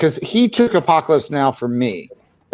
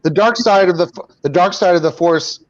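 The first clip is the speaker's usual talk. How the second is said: Palpatine voice; 4 semitones higher than usual. Pretend. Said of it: "You do the Palpatine lines".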